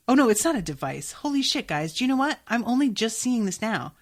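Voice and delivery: sudden high shocked outburst; shocked surprise. Real, not acted. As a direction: gasp it out as you realise. Sudden shocked discovery on screen.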